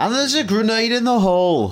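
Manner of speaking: faint put-on northern English accent. Imitating a Gamescom shoutcaster's catchphrase: weak northern English accent. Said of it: "It was more northern than that".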